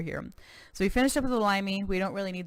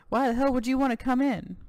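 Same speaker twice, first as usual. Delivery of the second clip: lightly voiced American cowboy governor, proud; a touch of boastful Texan governor; 6 semitones higher, 3 dB louder than usual.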